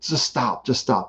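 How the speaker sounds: quick imitation of fed-up nagging, kept light; mock exasperated plea. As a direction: act out pleading with your own mind, softly. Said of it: "I wasn't giving that energy".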